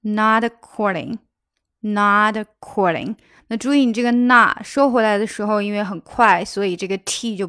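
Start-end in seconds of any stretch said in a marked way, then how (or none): 0.0-3.2 Not according linked, the t of not barely released into according. Shown as a demonstration. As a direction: glide not straight into according. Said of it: "这个not和according是要连起来的". (not和according连读，t不爆破)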